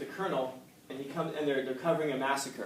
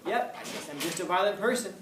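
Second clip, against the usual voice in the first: higher-pitched, mock resigned admission; acted shrugging acceptance; 6 semitones higher than usual. Someone just sitting there accepting their flaw, mock resignation. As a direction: pretend to accept it without a care. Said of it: "just sit there and go".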